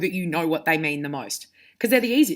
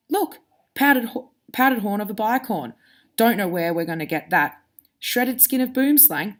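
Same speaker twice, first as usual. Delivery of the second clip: reading aloud to the class, voicing each character; storybook read-aloud with lively voices; story reading with character voices. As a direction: bring the kids into the scene as you read. Teacher reads Harry Potter aloud.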